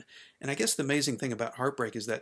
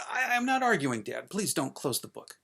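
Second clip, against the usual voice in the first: pleading protest; 3 semitones higher than usual. Acted. Child begging dad not to close the book, pleading. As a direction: stammer into a plea, pitched high at first.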